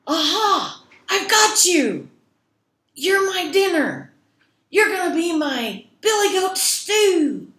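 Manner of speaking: high, loud roaring troll voice. Acted. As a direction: leap out and roar like a hungry troll. Troll jumps out at goat.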